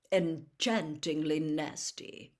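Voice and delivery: slow, amused dry remark; twinkling irony. Acted. Dumbledore teasing the reporter, slow amused irony. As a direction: savour the gentle dig. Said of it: "his eyes twinkling".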